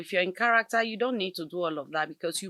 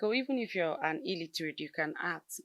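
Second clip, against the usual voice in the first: mocking quote of others; 3 dB quieter than usual. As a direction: brush it off like a naive claim. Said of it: "some persons will be like".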